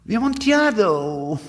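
high, loud cry of astonishment; astonished exclamation. A narrator's reading. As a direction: blurt the name in shock. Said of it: "ejaculated my friend".

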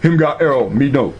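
hammed-up broken English; mock broken English. Mocking the tribal men's talk in halting broken English.

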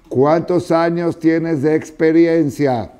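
high, slow, loud "¿Cuántos años tienes de experiencia?" with experiencia drawn out; preacher lands the key question; emphatic slow question. Real, not acted. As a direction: stretch the question out and lean on experiencia. Rhetorical key question to congregation.

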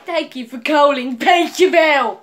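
loosely imitated British phone greeting; mock British accent. Caller mimicking the pizzeria's recorded greeting, mock British accent. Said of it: "Why is it British?".

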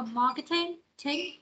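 "marketing" with weight on "thing"; emphasize "thing" at the end of "marketing"; stress last syllable. Shown as a demonstration. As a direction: lean on the final syllable of "marketing". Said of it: "các bạn nhấn vào chữ thing".

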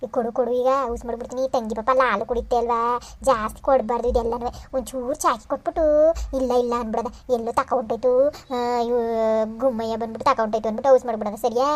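low, softened grandmotherly coaxing; confiding, pitched low; gentle coaxing. Acted. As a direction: plot a little secret with a child. Grandmother coaxing child into hiding treats.

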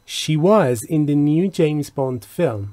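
slow, clear English example read; slow model reading. Shown as a demonstration. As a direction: read it out slowly for learners. Teacher reads example slowly. (خواندن آهسته و شمرده)

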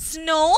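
snow with a long "oh"; O as in tomorrow. Shown as a demonstration. Teacher showing pupils the tomorrow sound, long O demo. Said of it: "pronounced as in tomorrow".

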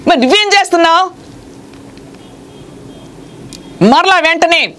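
high, ringing preacher's cry; fervent preaching. Acted. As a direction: proclaim it to the whole church. Preaching at full force. (ఉత్సాహంతో ఎత్తైన స్వరంలో బోధ)

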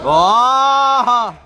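loud cheer. Real, not acted. Cheering a shot.

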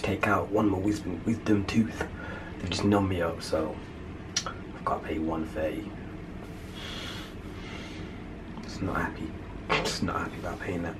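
hushed low voice in the dentist's chair; quiet. Real, not acted. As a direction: keep it down, numbed and glum. Sitting numbed in dentist's chair.

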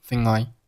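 "thin I" joined as one word; linked words. Shown as a demonstration. Teacher showing learners linking, "thin I" said joined. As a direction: run "thing" straight into "I" as "thin I". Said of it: "thing和后面的I连读".

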